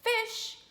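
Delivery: "fish" said slowly with a clear F, lip bitten; correct F sound. Shown as a demonstration. Teacher modelling the right word, careful F. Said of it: "trying to say the word".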